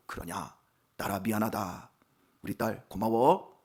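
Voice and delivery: melt, and forgive her quietly; tender reconciliation. Retold or imitated. Father making up with his apologizing daughter, tender and soft.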